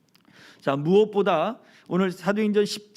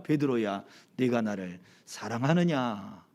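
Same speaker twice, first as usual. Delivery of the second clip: softer, tender question to Peter; gentle asking; 7 semitones lower, 4 dB quieter than usual. Acted. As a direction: ask him softly, like a forgiving friend. Jesus gently asks Peter. (부드럽고 다정하게 묻는 예수님)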